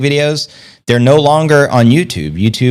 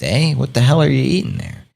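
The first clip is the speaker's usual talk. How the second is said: ordinary talk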